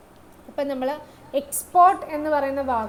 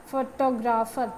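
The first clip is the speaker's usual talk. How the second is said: ഫോട്ടോഗ്രാഫർ sounded out with stress on its ട sound; demonstrated word stress; slower than usual. Shown as a demonstration. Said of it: "സൗണ്ടിൻ്റെ അവിടെയാണ് stress വന്നിരിക്കുന്നത്".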